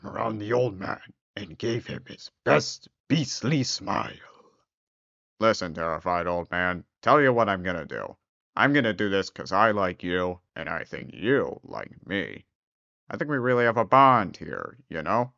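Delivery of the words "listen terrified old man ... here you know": smooth-talking beast. Acted. Beast's friendly offer.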